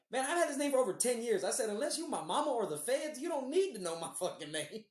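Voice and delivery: retold fed-up comeback, starting high-pitched; mildly exasperated, high at first and settling down; exasperated retort. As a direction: act out being tired of explaining yourself. Retelling exasperated answer about his name.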